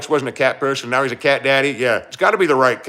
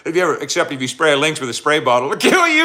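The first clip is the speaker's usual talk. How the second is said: emphatic warning; 2 semitones higher, 4 dB louder, faster than usual. Retold or imitated. Streamer to chat, repeating Eric's lynx warning with a loud punchline. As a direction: race through the spray bottle part, then slam "it'll kill you". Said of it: "He said".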